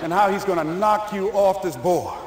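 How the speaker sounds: low and sneaky, winding Larry up; sly coach. Retold or imitated. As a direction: coach egging the lineman on, hushed and laughing.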